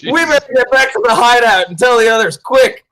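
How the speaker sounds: mock urgency. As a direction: rush the others off in a fake panic. Player urges retreat in character.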